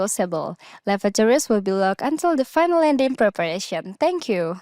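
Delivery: measured, formal descent announcement; cabin crew announcement. Shown as a demonstration. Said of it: "top of descent kali ya".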